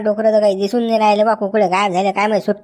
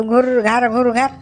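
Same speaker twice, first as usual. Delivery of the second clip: snoring imitation; slower than usual. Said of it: "असं घोरतो का तू".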